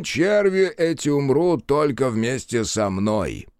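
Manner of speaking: high, eager servile bowing voice; fawning trickster voice. Acted. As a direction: grovel brightly while bowing. Trickster continues. (заискивающий голос)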